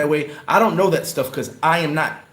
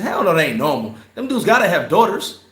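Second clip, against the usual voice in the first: retold angry outburst; 4 semitones higher than usual. Arguing with his cousin about the girls, heated raised protest. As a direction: push back hard at your cousin, heated. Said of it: "And I said".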